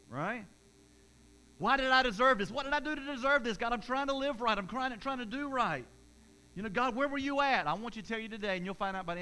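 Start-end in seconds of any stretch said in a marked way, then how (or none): 1.6-7.6 raised, higher voice crying out to God; anguished plea to God. Retold or imitated. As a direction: plead loudly, as if wronged by God. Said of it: "voicing an aggrieved believer".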